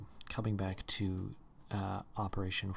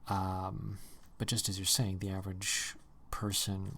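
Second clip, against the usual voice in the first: usual speaking voice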